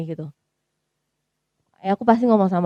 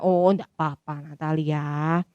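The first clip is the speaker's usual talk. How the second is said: forced reassurance; 5 semitones lower, 6 dB quieter, slower than usual. Retold or imitated. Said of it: "Aku nggak bisa bilang kayak".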